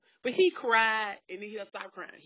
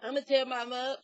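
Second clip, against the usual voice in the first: imitating a whiny child; 3 semitones higher than usual. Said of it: "what you ain't gonna do".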